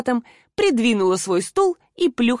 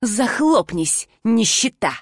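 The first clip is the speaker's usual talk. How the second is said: harsh insult; slower than usual. Acted. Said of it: "резкий тон и обидные слова".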